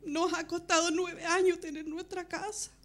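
high, loud desperate pleading; recounted shouting. Retold or imitated. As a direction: cry out to the Lord as the house burns. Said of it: "Y empecé a gritar en ese momento". (gritando desesperada al Señor)

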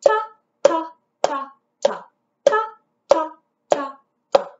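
each ta spoken on the beat; rhythm syllables. Shown as a demonstration. Teacher modelling quarter notes for the class. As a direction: chant ta evenly, one per beat. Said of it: "tap that pattern".

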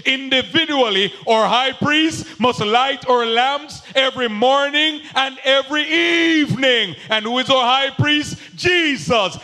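driving sermon cadence, building; fervent pulpit preaching; preaching at full force. Acted. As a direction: preach it out to the congregation.

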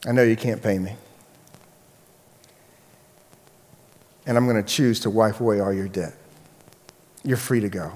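soft, low, measured pardon; merciful king. Acted. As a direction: grant mercy gently, with long pauses. Acted king forgiving the debt.

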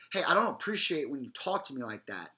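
firm. Shown as a demonstration. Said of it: "clearly stating your behavior, cut and dry".

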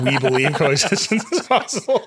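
a hint of a solemn president addressing the nation; mock president. Host mocking the company line as a president. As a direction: lightly play a president after an alien invasion. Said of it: "what the president says after the aliens invade Earth".

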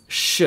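"sh" with air passing at the back; back-teeth sh. Shown as a demonstration. Teacher contrasts two letters, back sh. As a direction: form the "sh" further back in the mouth. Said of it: "with the air passing in the back".

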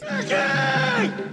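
high screamed call of a name; mock distant scream of a name. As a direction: yell a warning from afar. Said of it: "he's screaming out like this".

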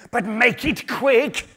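high, slow, drawn-out snake. Acted. Snake to the lizard, high slow creature voice. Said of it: "said the snake".

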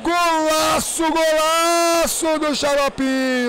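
stretched, excited golaço; drawn-out goal call. Real, not acted. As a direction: hold the word golaço long. Celebrating the goal.

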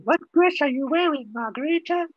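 clarifying repeat. Real, not acted. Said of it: "address I'm wearing".

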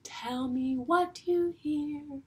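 play-time announcer voice; teacher leading a guessing game, playful; game prompt. Shown as a demonstration. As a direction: announce the game a touch sing-song. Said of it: "I will say".

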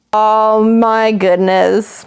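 very slow, drawn-out dismay; stunned reaction. Real, not acted. Viewer learns the news has leaked, stunned. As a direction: stretch each word in disbelief.

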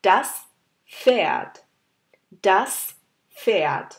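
Pferd with the pf heard as f; German demo word. Shown as a demonstration. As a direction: model Pferd twice, f sound. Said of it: "একটা example নিয়ে এসেছি". (Pferd উচ্চারণ ফেয়ার্ট)

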